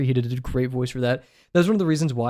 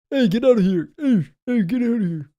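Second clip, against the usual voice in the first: high, loud YouTuber impression; 10 semitones higher, 3 dB louder than usual. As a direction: yell it like a hyped YouTuber. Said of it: "he does, like, the YouTuber".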